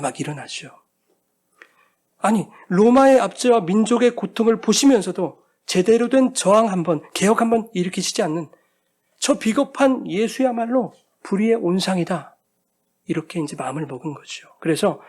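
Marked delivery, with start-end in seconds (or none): none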